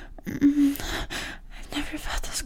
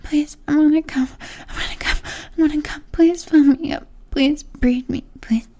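desperate pleading; 2 semitones higher, 4 dB louder than usual. Acted. Climax, begging building up.

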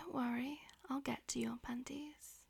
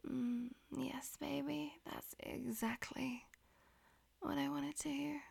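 whispering. Acted. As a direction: whisper it close to the ear. Whispered throughout.

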